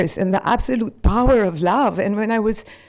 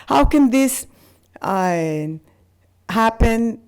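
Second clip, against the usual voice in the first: horrified; 3 semitones higher than usual. Retold or imitated. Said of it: "I was just horrified".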